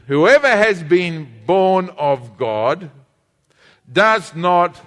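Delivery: slow, drawn-out reading aloud with the congregation; slow group reading. Shown as a demonstration. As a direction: lead everyone reading it slowly together. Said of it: "everybody read this with me".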